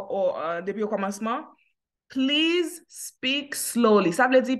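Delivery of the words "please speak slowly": very slow, each word drawn out; slow model phrase. Shown as a demonstration. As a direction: teach it at crawling pace. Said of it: "Mwen ap rekòmanse".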